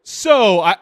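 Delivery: bathroom guy. Retold or imitated. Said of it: "And he goes".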